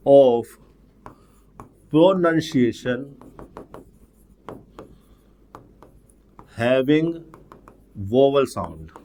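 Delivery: very slow, long pauses between words; word-by-word dictation. Real, not acted. Teacher writing a definition for students, slow word-by-word dictation. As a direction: dictate it one word at a time as you write.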